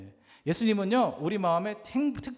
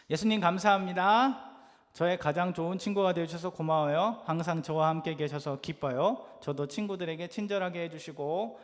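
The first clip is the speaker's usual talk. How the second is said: put-on children's prayer; 2 semitones lower than usual.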